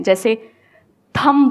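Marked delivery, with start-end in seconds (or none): 1.2-1.5 थंब with the final B sounded; थंब, closing on an audible "b"; wrong pronunciation. Shown as a demonstration. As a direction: pronounce the B at the end of थंब. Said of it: "ऐसे कई सारे word हैं".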